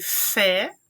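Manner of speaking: fé held long and emphatic; stressed syllable isolated. Shown as a demonstration. Teacher picking out the tonic syllable for students, fé stretched. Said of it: "a última sílaba é a tônica".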